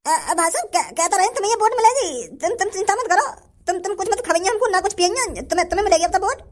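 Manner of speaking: stammering, eager reassurance; cowed placating. Acted. Beaten villager promising Kalia the vote, cowed stammer. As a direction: stumble over promises to appease.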